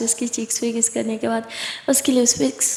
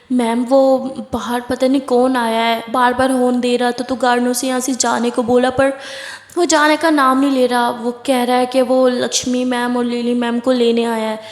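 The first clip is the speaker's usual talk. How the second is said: flustered maid; 4 dB louder than usual. Acted. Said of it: "एक मेड अंदर आती है और वो कहती है कि".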